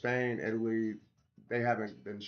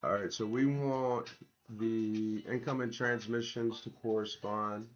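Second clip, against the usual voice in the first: sore, slightly strained throat; talking through a sore throat; swollen tonsils voice. Real, not acted. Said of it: "I'm getting over tonsillitis".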